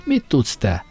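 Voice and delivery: mild mock yell, pitch climbing on the ages; shouting into his ear. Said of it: "hogy a fülembe üvölthessen".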